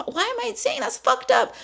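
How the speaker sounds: high-pitched incredulous question to oneself; retold self-reproach. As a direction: catch yourself, pitch shooting up. Retelling shocked self-reproach.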